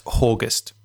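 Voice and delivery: "August" with an H sound added at the front; mock pronunciation correction. Shown as a demonstration. Host jokingly correcting his co-host's month, "August" pronounced with a leading H. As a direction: say "August" slowly, as "HOR-gust". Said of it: "It's pronounced".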